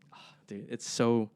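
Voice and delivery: breathy, unvoiced museum whisper; hushed awe. Museum visitors whisper to each other in awe. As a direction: whisper like you're in an art gallery.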